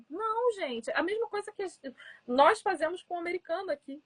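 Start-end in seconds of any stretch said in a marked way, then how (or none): none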